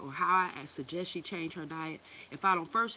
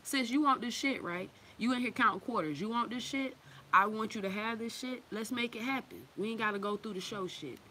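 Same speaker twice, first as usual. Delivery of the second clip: urging; 5 semitones higher than usual. Acted. Urging the sister at checkout.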